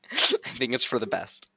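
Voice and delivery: said through a real laugh. Real, not acted. Streamer to chat, laughing through the answer. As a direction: laugh your way through the line.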